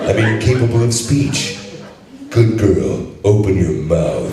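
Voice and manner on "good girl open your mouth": Duke Nukem voice. Acted. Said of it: "read that as the Duke for us".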